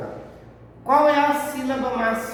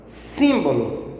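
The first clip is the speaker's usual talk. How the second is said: Símbolo slow, with a strong first syllable SIM; stress on SIM; 4 semitones lower, much slower than usual. Shown as a demonstration. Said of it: "é a sílaba mais forte". (Símbolo com o SIM bem forte)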